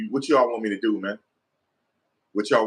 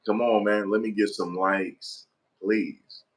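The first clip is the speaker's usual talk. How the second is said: usual speaking voice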